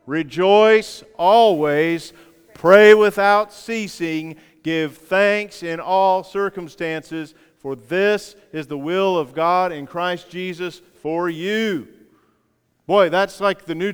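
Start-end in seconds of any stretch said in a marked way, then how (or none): 0.0-11.9 slow, drawn-out congregational reading; unison recitation. Shown as a demonstration. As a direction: lead them through each word slowly. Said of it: "Let's say it together".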